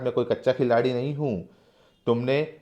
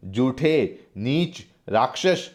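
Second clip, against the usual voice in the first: slow, higher furious outburst; acted angry cry, rising high at the end; angry shout; 4 semitones higher, slower than usual. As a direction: hurl the insults in rage. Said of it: "Sagarmal गुस्से से चीख कर कहते हैं".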